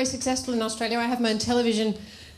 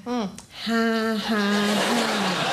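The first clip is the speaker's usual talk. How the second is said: mock half-hearted laugh; unamused laugh; much slower than usual. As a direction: imitate an audience member's token laugh. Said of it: "sitting there going".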